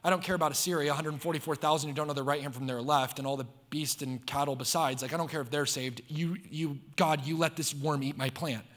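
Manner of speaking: a hint of a whining prophet; sulky Jonah. Jonah complaining to God about his plant, mild sulky grumble. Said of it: "Jonah's like".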